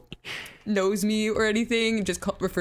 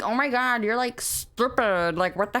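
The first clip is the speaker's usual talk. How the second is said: drawn-out mock disdain; put-on scornful gush; fangirl voice; 2 semitones higher than usual. Shown as a demonstration. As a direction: stretch it like a dramatic fangirl. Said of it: "you just gotta go".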